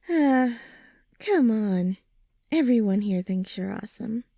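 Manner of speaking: ordinary talk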